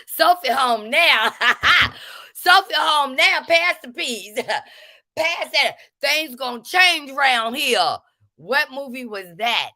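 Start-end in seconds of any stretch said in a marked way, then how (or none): 0.1-8.0 high, loud, laughing through the line; can't get the quote out for laughing; cracking up while quoting. Retold or imitated. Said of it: "This woman says".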